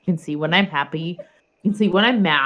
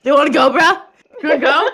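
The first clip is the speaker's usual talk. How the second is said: fake tough guy swagger; 9 semitones higher, 7 dB louder, much faster than usual. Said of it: "I'm quoting South Park".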